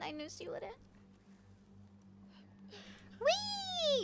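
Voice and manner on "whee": high playful squeal of fun; gleeful whee. Acted. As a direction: show them how to have fun. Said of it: "Let's say it together".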